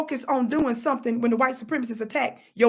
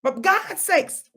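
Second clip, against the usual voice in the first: slow exasperated plea; much slower than usual. Real, not acted.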